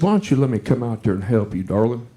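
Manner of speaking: a hint of a flirting redneck woman, voice dropped; sultry junkyard gal. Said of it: "and she said".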